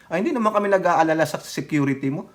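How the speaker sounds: ordinary delivery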